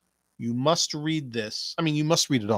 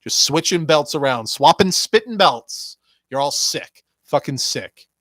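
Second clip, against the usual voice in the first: mocking quote; 3 semitones higher, 4 dB louder than usual. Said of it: "their good friends were like".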